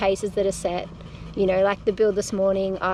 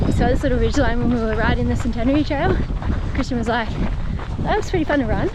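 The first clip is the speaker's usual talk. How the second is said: numb mouth; 3 semitones higher, 5 dB louder, faster than usual. Real, not acted. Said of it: "can't feel my face".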